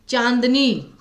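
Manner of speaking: चांदनी said slowly with a full n through the nose; drawn out, lean on the n in चांदनी; clear n sound. Shown as a demonstration. Teacher demonstrating चांदनी for students, n sounded through nose. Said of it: "चांदनी में न पे focus आया, नाक से ज़्यादा आवाज़ निकली".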